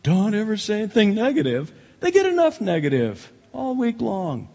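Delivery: lampoon the feel-good preacher; mocking a modern preacher. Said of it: "He was not a modern communicator".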